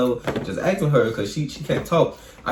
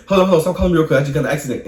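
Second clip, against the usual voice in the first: loud, rushed and higher: hold on, stop calling; a panicked friend yelling down the phone; urgent shout; 4 semitones higher, 4 dB louder, much faster than usual. Retold or imitated. Friend calling out after crash.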